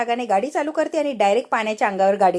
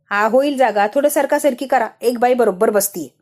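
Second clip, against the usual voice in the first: bossy driver; 5 dB louder than usual. Acted. Bus driver pushing passengers.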